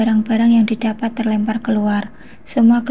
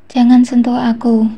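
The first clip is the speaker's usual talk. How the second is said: a lightly raised, understated shout; mild shout; 4 dB louder than usual. Acted. Sick man pushing away her touch, mild shout. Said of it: "teriaknya mengibaskan tanganku".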